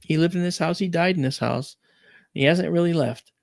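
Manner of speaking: lightly voiced grandmother about the captain; grandmother's voice. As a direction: state it calmly as plain fact. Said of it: "my grandmother said".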